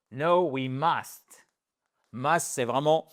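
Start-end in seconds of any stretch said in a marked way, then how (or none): 0.1-1.5 blunt refusal. Shown as a demonstration. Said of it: "ou encore pire".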